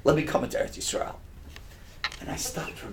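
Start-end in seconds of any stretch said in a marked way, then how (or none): 0.0-1.2 breathy, hushed plea to God; pleading. Retold or imitated. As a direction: beg softly, almost whispered.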